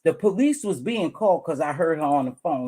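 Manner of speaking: talking while chewing gum; words around a piece of gum. Real, not acted. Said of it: "Excuse me, I'm chewing gum".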